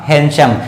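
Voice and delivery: हैंडसम said as "hen-shum"; silent D. Shown as a demonstration. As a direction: drop the d in हैंडसम. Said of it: "इसकी उच्चारण होगा".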